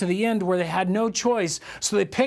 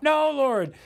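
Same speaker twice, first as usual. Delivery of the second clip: higher, drawn-out mock no; whiny refusal; 6 semitones higher than usual. Believer refusing God's call, higher mock whine. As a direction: balk at God like a sulky child. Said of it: "he's not gonna let us say".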